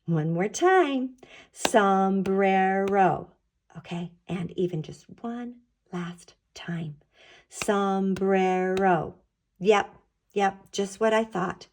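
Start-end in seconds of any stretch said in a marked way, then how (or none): 1.5-3.3 SOMBRERO very slowly, in three stretched beats; clapped out syllables. Shown as a demonstration. Teacher clapping out a word with children, syllable by syllable. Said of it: "fun word to clap out". 7.5-9.1 SOMBRERO very slowly, in three stretched beats; clapped out syllables. Shown as a demonstration. Teacher clapping out a word with children, syllable by syllable. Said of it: "There are three claps".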